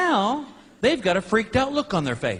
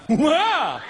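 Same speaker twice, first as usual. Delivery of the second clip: panicked exclamation; 7 semitones higher than usual. Retold or imitated. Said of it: "and I went".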